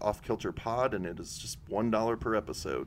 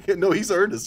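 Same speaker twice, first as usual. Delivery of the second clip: laughing; 10 semitones higher, 10 dB louder than usual. Real, not acted. Laughing comment.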